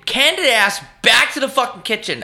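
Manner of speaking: high-pitched, hammed-up indignation; mock tirade. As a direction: play at telling off the waiter. Acted tirade at a waiter.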